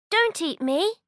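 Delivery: high, begging goat voice; pleading little goat. Acted. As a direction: beg the troll not to eat.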